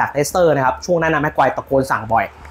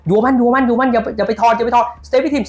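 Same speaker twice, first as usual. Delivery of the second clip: higher, slower, insistent repeated call; imitated pitch command; 7 semitones higher, slower than usual. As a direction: drill the instruction like a centre-back. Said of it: "ภาษาฟุตบอล".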